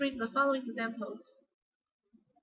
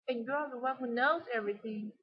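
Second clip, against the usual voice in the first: emphasize "knows" in the line; "knows" stressed to show surprise. Shown as a demonstration. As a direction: lean on the word "knows". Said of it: "so he emphasized knows".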